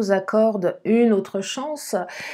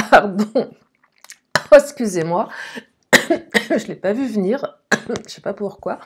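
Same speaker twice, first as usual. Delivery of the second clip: choking on a drink; 3 dB louder than usual. Real, not acted. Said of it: "elle va aller de travers".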